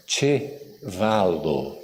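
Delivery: "Chevalo" very slowly, "ch" as in "tch", stress on "va"; slow Esperanto word. Shown as a demonstration. Teacher teaching the audience the word for horse, slowly. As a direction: draw out "Chevalo" syllable by syllable. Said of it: "Como é que se fala cavalo em Esperanto?".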